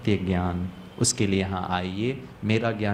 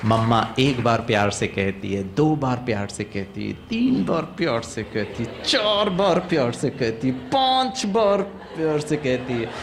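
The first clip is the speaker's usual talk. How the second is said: mounting exasperation. Retold or imitated. Mother asking her child again and again, growing exasperated. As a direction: count the tries, patience cracking.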